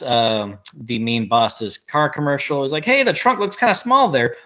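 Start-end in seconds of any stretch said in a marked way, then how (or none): 2.9-4.4 high-pitched put-on heckling; mock heckler. Mitch interrupting the boss's car commercial, mock innocent heckling. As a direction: call it out high, playfully acted.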